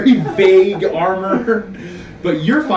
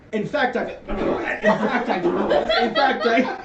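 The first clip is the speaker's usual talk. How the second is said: glitching repetition; 3 semitones higher than usual. Retold or imitated. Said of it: "Rain goes".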